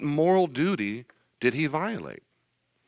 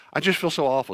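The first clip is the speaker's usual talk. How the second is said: mock crying; 4 semitones higher, 4 dB louder, faster than usual. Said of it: "And she's crying".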